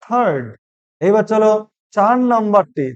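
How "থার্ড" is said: থার্ড said with the r left unsounded; silent r. Shown as a demonstration. Teacher showing learners the silent r, carefully pronounced. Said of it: "এই আর এর উচ্চারণটা silent দেখবে".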